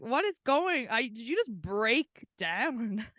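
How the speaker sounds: mock-baffled, starting high; baffled retort. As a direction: react bewildered to being parroted, drawing out the end. Retort to someone mimicking the accent.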